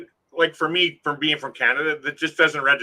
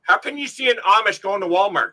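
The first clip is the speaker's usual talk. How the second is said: real shock, voice jumping up; incredulous outburst; 6 semitones higher than usual. Real, not acted. To a friend about Amish at Walmart, incredulous outburst.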